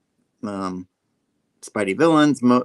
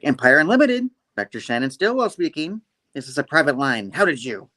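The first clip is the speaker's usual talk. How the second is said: imitated receptionist-like pickup, pitched up; phone greeting voice; 4 semitones higher, 4 dB louder than usual. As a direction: answer the line in a raised, put-on voice. Voicing daughter answering the phone.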